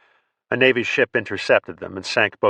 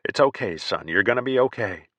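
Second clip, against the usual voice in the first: soothing tones. Acted. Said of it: "talk him down in low, soothing tones".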